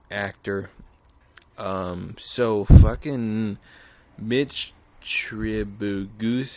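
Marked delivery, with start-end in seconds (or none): 2.2-6.5 loud, slow exclamation; loud outburst. Real, not acted. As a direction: bellow it out slowly. Sudden outburst on the name.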